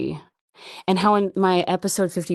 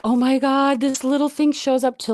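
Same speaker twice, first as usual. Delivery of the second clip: high, loud thrilled oh my God; delighted squeal of realization, pitched up; excited gush; 8 semitones higher, 4 dB louder than usual. Retold or imitated. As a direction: burst out with happy disbelief. Delighted realization about the spider.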